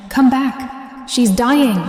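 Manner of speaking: high, loud desperate shout. Acted. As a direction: yell after them, voice cracking. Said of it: "I shouted after them".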